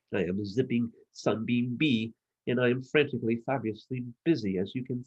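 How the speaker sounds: fast, busy bee chatter; quick-fire busy bee voice; very rapidly. Acted. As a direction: rattle it off like a bee in a hurry. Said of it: "said the zipping sunbeam bee very rapidly".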